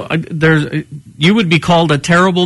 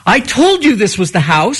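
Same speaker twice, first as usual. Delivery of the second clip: put-on higher, drawn-out kid's exclamation; imitated excited girl; 4 semitones higher than usual. Girl at the comic-book house to her friends, imitated triumph. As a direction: play a kid proven right, stretching the words. Trick-or-treating girl's triumphant quote.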